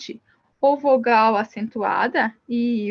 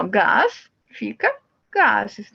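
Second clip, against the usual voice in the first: slow demo; 3 semitones lower, much slower than usual. Shown as a demonstration. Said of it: "a gente acrescenta E S".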